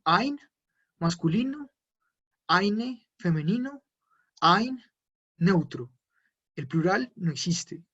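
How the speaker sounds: "ein", "eine", "kein", "keine" said with the German ai sound, each one lifted and set apart; German articles demo. Shown as a demonstration. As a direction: model each German article slowly and clearly for the class. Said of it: "lo repito".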